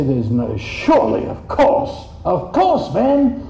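"of course" spat out then flung up high; stamping foot. Retold or imitated. Preacher acting a believer stamping his foot, insistent. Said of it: "you stamp your foot and say".

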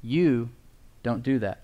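"You" set apart by a pause before "don't do that"; stress on YOU. Shown as a demonstration. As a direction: pause after "You", then say it gently. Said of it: "Grace says".

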